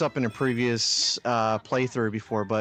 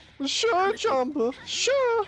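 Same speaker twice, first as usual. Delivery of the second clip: very high-pitched cartoon alien voice. Quoting a cartoon scene while the other speaker asks about the voice; Pleakley voice. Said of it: "trying to do a voice".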